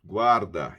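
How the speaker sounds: Guarda said low and firm; stressed Guarda. Shown as a demonstration. Teacher stressing Guarda to Portuguese-speaking students. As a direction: press on Guarda to drive it home. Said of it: "guarda isso em sua mente".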